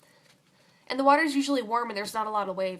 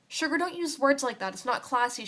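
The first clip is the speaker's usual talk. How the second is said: scolding; 4 semitones higher than usual. Acted. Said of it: "she scolds".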